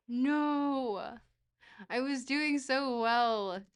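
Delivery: drawn-out, loud lament; loud dismay. Real, not acted. Streamer's good run just went off, loud dismay.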